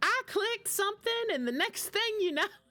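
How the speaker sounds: very high, put-on thick Southern accent. Retelling how her mom calls her for help, imitating mom's thick Southern accent. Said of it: "she has a really thick Southern accent".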